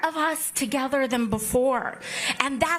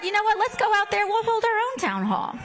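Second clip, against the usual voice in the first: excited; 7 semitones higher, faster than usual. Retold or imitated. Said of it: "So we said".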